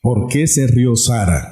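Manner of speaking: God asking Abraham why Sara laughed, low and slow. Acted. God rebukes Sara through Abraham.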